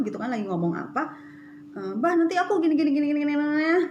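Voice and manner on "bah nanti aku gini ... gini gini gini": rushed retelling. Retold or imitated. Telling husband her plans rapidly.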